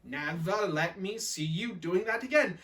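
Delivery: measured, word-by-word scolding; stern maid's lilting reprimand; telling off. Acted. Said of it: "my maid is telling me off".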